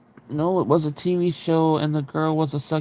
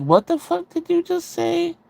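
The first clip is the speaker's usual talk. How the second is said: retold shocked disbelief; 13 semitones higher than usual. Sister confronting brother over offensive remark, shocked disbelief. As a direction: act out a stunned challenge in high pitch.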